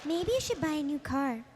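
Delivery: soft, timid cartoon GPS voice; Fluttershy. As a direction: give directions shyly and hesitantly. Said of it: "I like the Fluttershy one you did".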